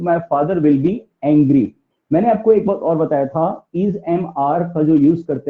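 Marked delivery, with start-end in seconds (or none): 0.0-1.7 very slow, careful "my father will be angry"; teacher's slow dictation; slow model sentence. Shown as a demonstration. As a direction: read it out slowly for learners. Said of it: "teacher models sentence".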